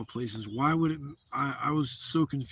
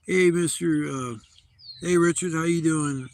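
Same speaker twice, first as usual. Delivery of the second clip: friendly cop greeting; 3 semitones higher, 4 dB louder than usual. Retold or imitated. Police greeting retired-cop dad.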